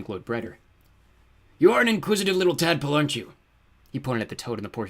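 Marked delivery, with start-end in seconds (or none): 1.6-3.3 high, loud, mocking villain; menacing fiery lord. A narrator's reading. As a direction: toy threateningly with your underling. Villain turns on questioning toad.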